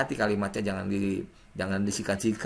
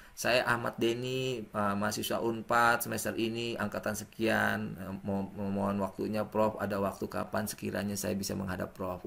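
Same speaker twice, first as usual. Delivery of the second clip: polite self-introduction; 4 semitones lower, 5 dB quieter than usual. Shown as a demonstration. Student demos introducing himself to the professor, quiet and humble. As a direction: introduce yourself meekly to the professor. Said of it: "Jangan berpikir nomor kita di-save".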